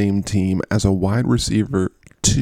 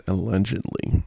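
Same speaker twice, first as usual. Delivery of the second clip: softer "Allegedly" in audible quotation marks; in quotes; 5 dB quieter than usual. Real, not acted. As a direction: drop "Allegedly" in as a quoted disclaimer. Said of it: "putting that in quotes".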